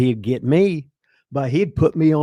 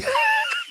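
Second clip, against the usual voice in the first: burst of laughter. Real, not acted. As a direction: crack up hard at the memory. Laughs at the memory.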